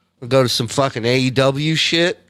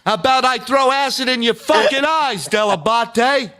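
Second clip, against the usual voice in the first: much higher put-on voice; voicing the dog; 13 semitones higher than usual. Voicing his dog's look, high and squeaky. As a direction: squeal the threat like a tiny villain. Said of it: "You look like".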